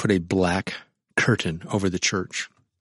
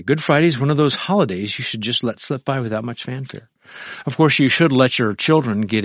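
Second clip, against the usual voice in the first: mock advice; 4 semitones higher, 4 dB louder than usual. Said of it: "Back to the book here".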